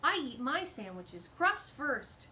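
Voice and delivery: slow, proud and loud; badger voice. Badger Pumpernickel proudly sharing his difference, slow. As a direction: announce it like a big confession. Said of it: "he said".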